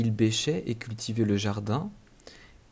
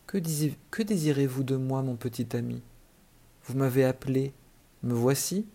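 gentle, kindly fairy asking; a lightly voiced gentle fairy; soft voice. Fairy gently greeting the little boy who called her, softly. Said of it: "d'une voix douce".

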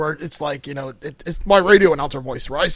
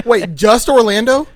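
laughing; 5 semitones higher, 7 dB louder, slower than usual. Real, not acted. Mock offended question.

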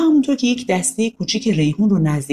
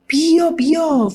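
put-on eager toddler call; 9 semitones higher, much slower than usual.

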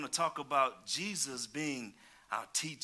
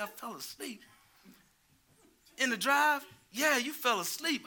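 mock disbelief; 8 semitones higher than usual. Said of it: "I said".

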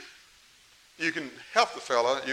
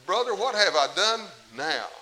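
louder, slower plea to his brother; exasperated David to brother; 5 semitones higher, 6 dB louder than usual. Retold or imitated. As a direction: appeal to him, wounded and tired. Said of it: "I can just see David saying that".

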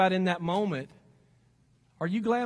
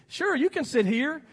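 welcoming; 4 semitones higher than usual. Acted. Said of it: "say things like this".

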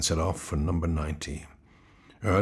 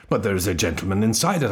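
impatient; 7 dB louder, faster than usual. Acted. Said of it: "I interrupted impatiently".

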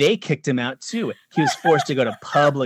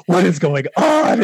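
louder outraged commenter imitation; mock angry; 3 semitones higher, 6 dB louder than usual. Angry group members reacting to the filmmaker, mock outrage. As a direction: imitate an indignant online commenter. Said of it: "getting so mad at me".

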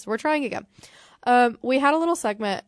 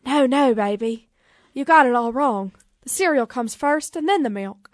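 lightly voiced rock-and-roll king; a hint of an amateur Southern star impression; a famous singer; 3 semitones higher than usual. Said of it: "what does the singer sound like?".

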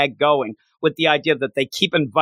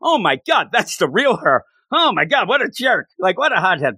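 mock Kazuya rant; 5 semitones higher than usual. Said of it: "he goes with the idea".

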